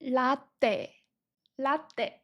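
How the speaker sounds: latte with a falling tune; Korean latte. Shown as a demonstration.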